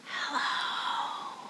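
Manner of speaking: whispered hello; hushed, drawn-out whisper; as quiet as possible. Shown as a demonstration. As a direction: whisper it as softly as you can. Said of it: "as quiet as we can".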